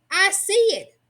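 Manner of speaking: put-on little girl shouting as she spots the cloud; child's shout. A narrator's reading. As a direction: call it out with delight. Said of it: "Jill gave a shout".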